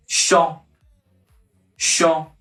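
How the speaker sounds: "chat" as SHAH, no final T; "chat" said shah, T silent; French chat. Shown as a demonstration. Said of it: "You should not pronounce the last letter T".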